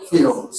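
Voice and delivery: ফিউলস as "fyools"; English pronunciation. Shown as a demonstration. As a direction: say ফিউলস as it will be heard in English. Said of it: "শুনবা কি?". (ফিউলস, ইংরেজি ধাঁচে ফিউ-লস উচ্চারণ)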